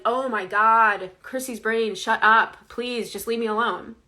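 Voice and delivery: half-hearted exasperated brush-off; frustrated. Retold or imitated. Telling her inner critic to shut up, mildly frustrated. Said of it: "I can get really frustrated and be like".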